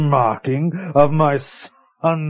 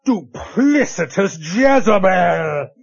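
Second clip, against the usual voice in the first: outraged accusation; 3 semitones higher than usual. Acted. Betrayed master accuses the maid.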